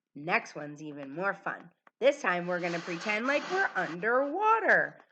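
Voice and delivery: ordinary delivery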